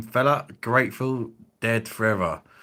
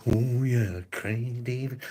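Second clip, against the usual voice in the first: mock singer's drawn-out self-shout-out; 4 semitones higher, slower than usual. Mocking a singer who bigs himself up, imitated crooning. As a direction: croon his own name like a pop star. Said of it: "all you get is".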